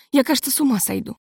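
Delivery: ordinary delivery, nothing marked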